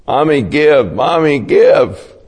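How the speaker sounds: put-on child begging for a toy, pitch a bit up; whining child. Preacher imitating child begging mother in store, light whine.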